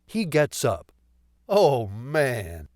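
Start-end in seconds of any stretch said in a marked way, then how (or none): 1.5-2.7 a light laugh through the words. Acted. Man laughs tearfully after the dance, lightly laughing. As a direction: let a tearful chuckle carry it. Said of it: "he laughs".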